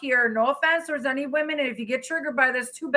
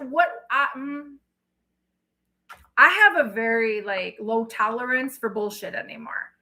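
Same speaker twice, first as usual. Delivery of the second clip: normal talking voice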